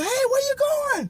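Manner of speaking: high call after someone; girl shouting after her friend walking off. Retold or imitated.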